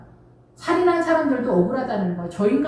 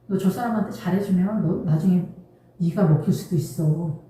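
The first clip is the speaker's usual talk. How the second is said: tempter's inner voice; 4 semitones lower than usual. Acted. Satan whispering temptation inside.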